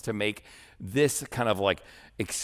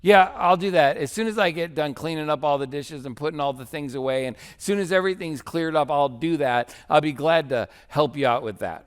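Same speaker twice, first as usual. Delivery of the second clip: passive-aggressive; 2 semitones higher, 3 dB louder than usual. Retold or imitated. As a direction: sweetly agree while making the delay a jab. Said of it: "passive-aggressive approach where she's like".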